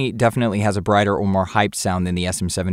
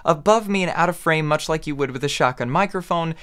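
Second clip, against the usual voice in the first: distant boomed mic; 4 semitones higher than usual. Shown as a demonstration. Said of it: "here's how that sounds".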